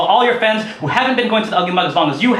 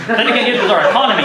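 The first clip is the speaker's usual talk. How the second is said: laughing; 3 semitones higher, 3 dB louder, faster than usual. Real, not acted. Laughing aside, fast.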